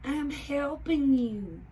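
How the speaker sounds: high, loud eager hat voice; Hildy insisting. A narrator's reading. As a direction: insist brightly. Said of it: "says Hildy".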